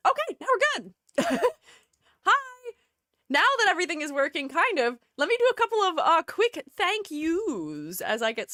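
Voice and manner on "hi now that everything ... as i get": talking with a congested throat; strained sick-day voice. Real, not acted. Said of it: "I'm talking so weird".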